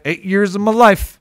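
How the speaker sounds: Southern twang demo; Arkansas accent. Shown as a demonstration. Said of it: "You didn't say eight years of my life".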